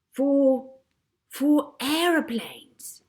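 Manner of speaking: high, slow drawn-out idea; slow inspired pronouncement. A narrator's reading. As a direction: land on it triumphantly. Searching for idea.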